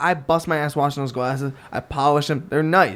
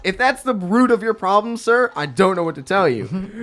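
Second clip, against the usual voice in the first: higher-pitched, pointed mock patience; retold sarcastic retort; 6 semitones higher than usual. Bartender answers the customer demanding plastic, retold sarcasm. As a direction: lightly put a fussy customer in their place. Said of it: "And I go".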